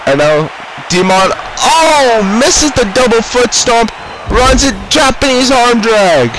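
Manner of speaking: fast, hyped ringside play-by-play; wrestling commentator. Acted. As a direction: call every move like live TV.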